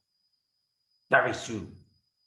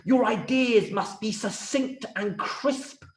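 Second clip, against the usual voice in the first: impatient king; 6 semitones higher than usual. Acted.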